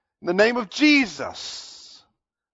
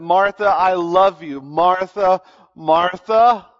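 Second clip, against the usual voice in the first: loving emphasis; 4 dB louder, slower than usual. Retold or imitated. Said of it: "There's an emphasis".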